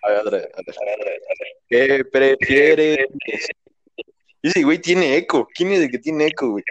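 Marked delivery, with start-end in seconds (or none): 1.7-3.1 drawn-out segment announcement; show segment intro. Pretend. Host presents the podcast's question game, drawn-out announcer delivery. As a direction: stretch every syllable like a game host. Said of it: "sin hacer yo la presentación".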